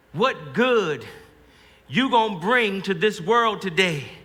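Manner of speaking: fuller, insistent remembered mother's voice; slow, drawn-out motherly challenge; Ma's voice. Acted. Soldier hears Ma's question as he faces the Indian, insistent mother. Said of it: "I hear Ma's voice".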